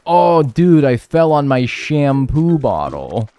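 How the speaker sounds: loud, high whiny patient voice, drawn out; mock injured patient. Girlfriend's imagined patient whining at the ER desk. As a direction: ham up a patient pleading in the ER. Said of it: "did the thing that's like".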